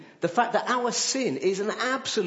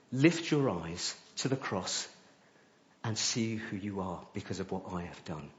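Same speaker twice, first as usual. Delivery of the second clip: hushed and tender, close to the ear; soft whisper; 6 semitones lower, 5 dB quieter than usual. Pretend. The Spirit whispering into his heart, soft and tender. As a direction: breathe it gently as a loving promise. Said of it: "he whispers into my heart".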